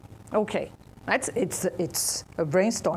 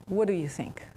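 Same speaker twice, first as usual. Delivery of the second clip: soft whispered question to the group; 3 semitones lower, 5 dB quieter than usual. Real, not acted.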